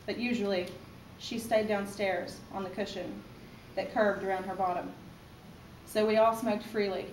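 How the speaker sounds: measured recital with pauses after each phrase; poetry reading. Acted. Mother reading her poem to her baby son, measured poetry recital. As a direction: read it as verse, phrase by phrase. Reads own poem aloud.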